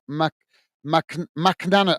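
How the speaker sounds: slow, halting stab at "McNannon"; stumbling pronunciation. Real, not acted. Host retrying an unfamiliar player's name, stumbling. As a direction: break off on "Mac-", then guess "McNannon". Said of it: "I can't pronounce his name".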